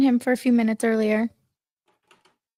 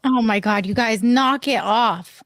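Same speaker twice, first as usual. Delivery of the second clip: shouting. Real, not acted. Pleading over the chipmunk voices.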